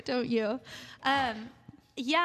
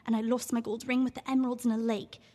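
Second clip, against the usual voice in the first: theatrical monologue read with feeling. Acted. Actress reading her monologue aloud on radio, theatrical. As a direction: perform the monologue for the radio audience. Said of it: "read a quick passage from your role".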